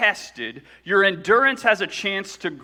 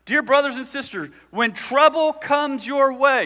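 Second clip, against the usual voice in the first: scripture reading; 6 semitones higher, 4 dB louder than usual. Acted. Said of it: "I'm gonna read it to you".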